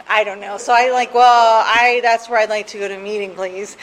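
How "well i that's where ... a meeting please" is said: louder, firm Well that settles into a polite please; insistent request. Retold or imitated. Caller insisting to the AA volunteer on her chosen meeting, loud and firm. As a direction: stand your ground but stay polite.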